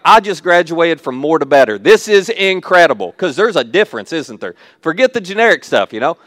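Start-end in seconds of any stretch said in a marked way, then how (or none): 0.0-3.1 louder, mock-triumphant thrill; retold excitement. Speaker quotes their younger self over name-brand groceries, excited. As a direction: proclaim it with playful excitement. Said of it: "I was so excited".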